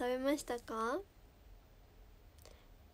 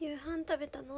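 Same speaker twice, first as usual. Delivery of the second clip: ordinary talk, nothing marked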